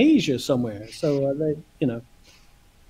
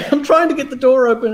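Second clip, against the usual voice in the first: laughing; 6 semitones higher, 3 dB louder, faster than usual. Real, not acted. Laughing while retelling struggle.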